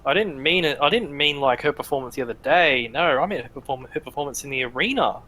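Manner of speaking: slightly oily backpedalling; smooth-talk with a touch of sleaze; sleazy. Acted. Arena dwarf praises the fighter's performance, sleazy. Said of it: "like, sleazy though".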